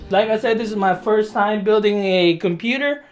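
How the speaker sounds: slightly winded while talking; out of breath. Real, not acted. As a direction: speak a little short of breath. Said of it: "I don't know why I'm out of breath".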